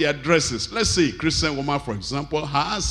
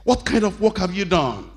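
a harsh boss scolding an employee, pitched higher; bossy manager; 4 semitones higher than usual. Retold or imitated. Boss scolding a worker over bad work, in an imitated harsh voice. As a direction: mimic a manager threatening to fire you. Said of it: "you know how they talk".

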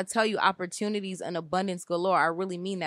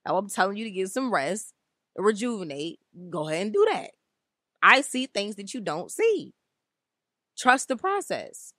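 divine voice. Retold or imitated. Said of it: "I hear the Most High in my mind".

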